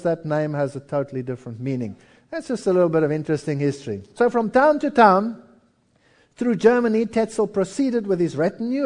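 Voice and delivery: usual speaking voice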